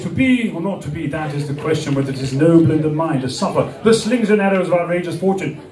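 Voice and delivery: lightly declaimed classical soliloquy; traditional Shakespeare recital. Acted. Showing how they used to do Shakespeare, lightly declaimed. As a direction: recite it as formal stage Shakespeare. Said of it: "they used to do like this".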